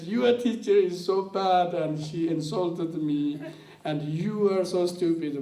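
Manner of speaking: mock indignant outburst; retold angry rant. Offended tulku ranting at his friend about her teacher, heated and loud.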